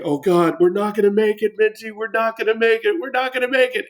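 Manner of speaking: retold in-game panic that climbs as he runs; a hammed-up rising fear, Minty; mock panic. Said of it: "And then I was like".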